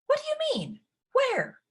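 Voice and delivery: high, alarmed question; shocked. A narrator's reading. Ella shocked at her stepmother's words, high and alarmed. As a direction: jolt up in disbelief.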